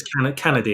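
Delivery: "Kennedy" said as CAN-uh-dee, after a false start; corrected name pronunciation. Shown as a demonstration. Clarifying a misheard character name, "Kennedy" pronounced CAN-uh-dee. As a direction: restart on "Can-", then "Kennedy" with a short A. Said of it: "it's easy to mishear his name".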